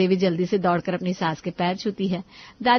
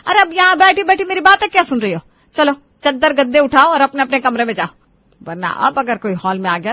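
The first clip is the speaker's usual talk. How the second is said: bossy scolding; 3 semitones higher, 4 dB louder than usual. Acted. Mother-in-law orders them back.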